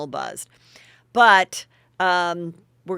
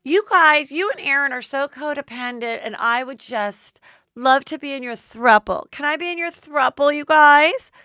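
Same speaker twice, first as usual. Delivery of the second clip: shrill, squealing mock fan voice, pitched way up; gushing fan impression; 8 semitones higher, 7 dB louder than usual. Host gushing over the couple, squealing mock fan voice.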